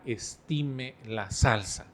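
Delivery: slow, deliberate mock fatherly warning; drawing out each word like a thrifty dad; father's slow warning. Padre cita su frase sobre la salsa. (imitando al papá, lento y pausado)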